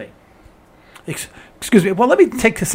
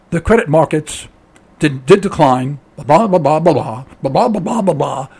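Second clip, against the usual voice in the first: monotone; 4 semitones lower than usual. Retold or imitated. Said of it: "he said it in a monotone".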